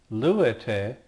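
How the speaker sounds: teacher modelling "luete"; careful Greek model word; Greek verb form demo. Shown as a demonstration. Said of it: "and also".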